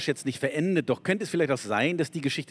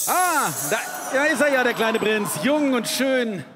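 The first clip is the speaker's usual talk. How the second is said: begeisterter Ausruf; 8 semitones higher, 4 dB louder, slower than usual. Acted. Erzähler erblickt den Prinzen.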